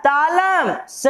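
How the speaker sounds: "तालम स" drawn out slowly and carefully; teacher slowly modelling "तालम स"; slow, careful demo. Shown as a demonstration. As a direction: say "तालम स" slowly for the class to repeat. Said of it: "तो बोलिए".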